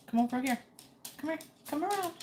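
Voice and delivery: high-pitched coaxing to a pet; calling a dog. Real, not acted. Calling her dog over.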